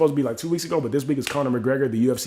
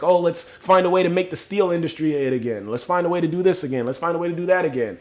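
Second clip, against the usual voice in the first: higher-pitched mock eager proposal; mocking imitation; 4 semitones higher than usual. Mimicking people scared of the future, mocking. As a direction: imitate naive people pitching old ideas.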